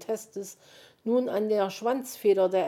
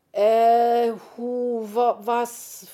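stammering, higher, baffled hesitation; confused; 5 semitones higher, 9 dB louder, much slower than usual. A narrator's reading. Willi asked for the solvent, stammering in confusion. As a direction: fumble for words, completely lost. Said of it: "fragte Willi verwirrt".

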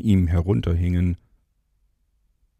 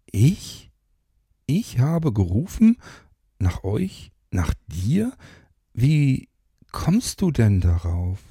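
higher, lightly voiced puzzled woman; incredulous, pitched up; Mara's voice; 5 semitones higher than usual. A narrator's reading. Mara puzzled she supposedly called him, lightly higher voice.

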